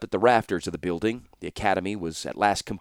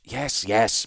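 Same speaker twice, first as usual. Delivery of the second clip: irritable; 2 semitones higher than usual. Acted. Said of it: "Baron replied irritably".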